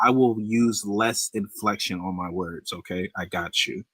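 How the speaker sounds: slow, over-careful mock compliance; promising to change, clearly not meaning it; fake sincerity. Real, not acted. The streamer's guest mockingly agrees to fix his tone. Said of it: "He is not being genuine".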